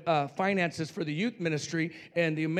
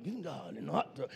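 whispered voice of the flesh; 7 dB quieter than usual. Retold or imitated. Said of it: "my flesh was like".

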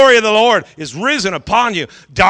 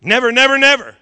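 rising insistence; 5 semitones higher than usual. Acted. Pastor voicing God's promise, rising emphatic cry. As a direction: build to a ringing cry. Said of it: "God said".

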